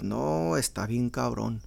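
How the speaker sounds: mechanic quote. Retold or imitated. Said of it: "they gotta start off with".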